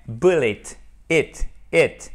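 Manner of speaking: "Bullet" ending in a short i, like "it"; second syllable of "Bullet" rhymes with "it". Shown as a demonstration. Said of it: "E qui se prononce comme un I court".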